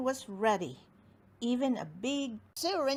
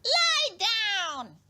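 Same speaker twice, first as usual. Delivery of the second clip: commanding dentist; 12 semitones higher, 6 dB louder than usual. Acted.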